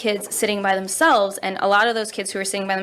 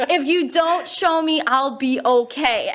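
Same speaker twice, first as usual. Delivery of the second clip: slow reply; 5 semitones higher, slower than usual. Retold or imitated. Teacher answering the kids.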